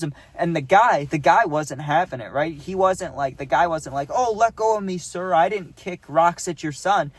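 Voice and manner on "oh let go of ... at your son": mock meek pleading. Mock meek reply from the guy.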